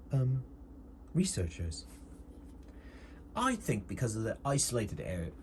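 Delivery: lightly put-on doctor voice, hesitant; lightly acted doctor feeling out a plan; doctor character, suggesting. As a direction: think aloud as the doctor.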